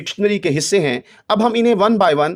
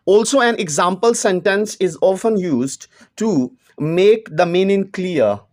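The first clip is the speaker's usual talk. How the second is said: reads each English word slowly and deliberately; slow textbook reading; much slower than usual. Acted. Teacher reading the book's English line to students, slow and measured. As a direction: dictate it word by word to the class.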